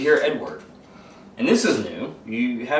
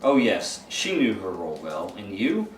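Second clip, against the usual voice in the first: demonic voice. Acted. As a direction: speak as the demon inside him, lightly voiced. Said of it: "it's like that demonic voice".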